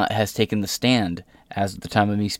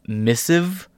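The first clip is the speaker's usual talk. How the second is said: incredulous; 7 semitones higher than usual. Real, not acted. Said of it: "I think you mean message, sweetheart".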